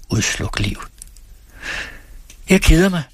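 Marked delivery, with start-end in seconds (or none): 2.5-3.0 high, loud burst of boredom; bored outburst. A narrator's reading. Lilian bursts out to Hans, loud and bored. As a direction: blurt it out, sick of it all. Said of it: "udbrød Lilian og sprang op".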